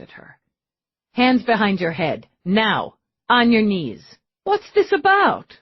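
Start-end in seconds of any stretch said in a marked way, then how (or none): 1.1-4.0 louder barked orders; firm command. Acted. Eve ordering the suspect onto his knees, louder commands. 4.4-5.6 much higher, louder panicked question; feigned fear. Acted. Darren playing scared innocent as cops burst in, higher panic. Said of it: "perfect mix of fear and confusion".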